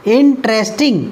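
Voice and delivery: इंटरेस्टिंग split इन, ट्रेस, टिंग; three syllables. Shown as a demonstration. Teacher showing the count, इंटरेस्टिंग broken in three. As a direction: give इंटरेस्टिंग three separate beats. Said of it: "तीन syllable का है".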